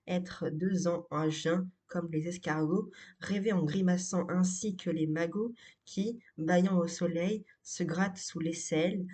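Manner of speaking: measured sonnet recitation, each line set apart; poem reading. Acted. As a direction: recite it line by line, lightly lifting the line endings. Reads a sonnet aloud. (lecture de poème, récitation posée)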